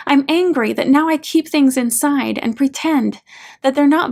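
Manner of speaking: a son finally shouting his hurt at his mom; angry outburst. Retold or imitated. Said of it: "He's yelling now, his anger very deep".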